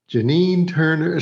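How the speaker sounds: slow Southern drawl; Southern accent. Retold or imitated. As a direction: announce the name with a Southern accent. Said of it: "Somehow now I'm in a Southern accent".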